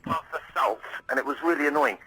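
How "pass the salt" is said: "salt" with a small squashed vowel. Retold or imitated. Father asking for the salt, squashed vowel in "salt". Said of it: "such a small squashed vowel".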